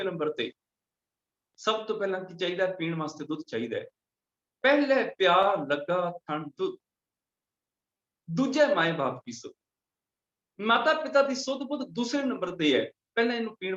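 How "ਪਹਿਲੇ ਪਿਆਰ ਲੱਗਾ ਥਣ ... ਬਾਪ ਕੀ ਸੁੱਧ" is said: scripture recitation. Acted. (ਠਹਿਰ ਕੇ ਗੁਰਬਾਣੀ ਪੜ੍ਹਨਾ)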